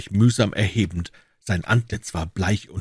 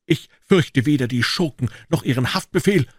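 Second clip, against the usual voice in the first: indignant cry; 6 semitones higher, 3 dB louder than usual. A narrator's reading. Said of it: "rief Jefferson entrüstet".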